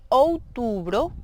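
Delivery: OUTUBRO slowly, opening on "ou"; careful teaching model of "outubro"; Portuguese month name. Shown as a demonstration. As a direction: draw out "outubro" for learners. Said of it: "Octubre sería".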